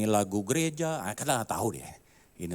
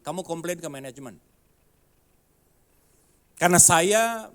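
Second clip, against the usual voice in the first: pianist's cool reply; 6 semitones higher, 8 dB louder than usual. Retold or imitated. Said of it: "dia bilang gini".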